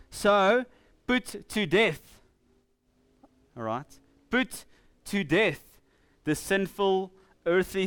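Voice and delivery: forceful reading in deliberate, separated phrases; emphatic scripture reading. Real, not acted. Preacher reading Paul's commands to the congregation, emphatically. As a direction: declaim the verses with punched key words.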